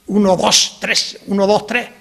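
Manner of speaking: dos and tres said as dó, tré, rising a little; counting, final s dropped. Shown as a demonstration. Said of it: "no se dice dos".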